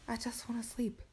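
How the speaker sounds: tired whisper at midnight; weary whisper. Real, not acted. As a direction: breathe it out, begging for sleep. Late night, pleading whisper.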